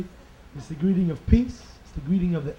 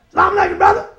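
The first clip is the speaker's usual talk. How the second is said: African American brother; 4 dB louder, faster than usual. Acted. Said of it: "one of our African American Muslim brothers".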